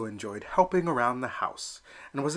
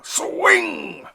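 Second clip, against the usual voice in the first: even higher, loud yell; hollering again; 8 dB louder than usual. Acted. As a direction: shout louder at your son. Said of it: "hollered Papa".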